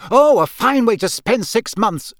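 high, loud sarcastic shriek. A narrator's reading. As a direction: shriek back in angry scorn. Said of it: "she shrieked".

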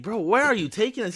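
high-pitched questioning of the driver; retold alarmed question. Passenger asks driver who keeps driving forward, high-pitched alarm.

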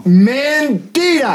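drawn-out mock outrage; indignant. Real, not acted. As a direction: call out the lie. Calls out friend's denial.

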